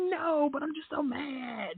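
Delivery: high, drawn-out whine of protest; upset son. Retold or imitated. Son explaining himself to his mom, high upset whine. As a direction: imitate an upset kid, slow and high. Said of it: "He's like".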